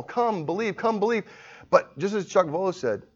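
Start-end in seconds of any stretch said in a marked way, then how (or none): 0.0-1.2 raised, lightly sung-out gentle call; gracious invitation. Acted. Preacher voicing the gracious overture, a gentle invitation. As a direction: invite them in graciously, pitched up. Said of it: "this gracious call".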